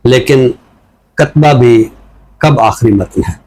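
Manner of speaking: measured, deliberate reading of a poem; poem recitation. Acted. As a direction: give each line weight and leave pauses between phrases. Poet recites his poem. (ٹھہر ٹھہر کر نظم کی سنجیدہ قرأت)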